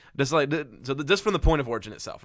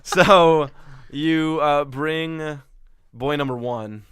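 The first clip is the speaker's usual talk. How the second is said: laughing; 4 semitones higher, 6 dB louder, much slower than usual. Real, not acted. GM talking through laughter.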